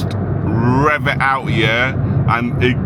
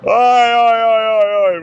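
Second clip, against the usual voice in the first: loud, higher playful oi oi calls; calling out; 10 semitones higher, 4 dB louder, slower than usual. Real, not acted. Driver calling out at the BMW beside him, loud and playful. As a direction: shout oi oi at the car alongside.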